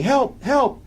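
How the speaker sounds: retold yell. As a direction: imitate her yelling at a restrained volume. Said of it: "and she's yelling".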